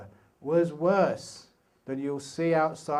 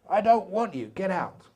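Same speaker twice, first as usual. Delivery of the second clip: louder, higher mock snap of rejection; half-playful push-away, louder and higher; mock angry rejection; 5 semitones higher, 5 dB louder than usual. Meditator mock-shouting away sloth and torpor, hammed-up anger.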